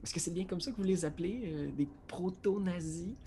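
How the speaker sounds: a hint of an American accent, curious; American-accented French. Edgar asking the Germans about their slang, with an American accent. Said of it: "mon accent américain".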